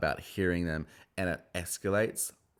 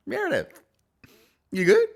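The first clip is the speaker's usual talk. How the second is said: high mock Meredith voice; 8 dB louder than usual. Mocking Meredith's voice, laughing.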